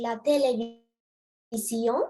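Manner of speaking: "la télévision" said slowly the French way; slow teacher's demo of French "la télévision"; French pronunciation. Shown as a demonstration. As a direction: model "la télévision" in French, drawing out each syllable. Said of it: "We pronounce it".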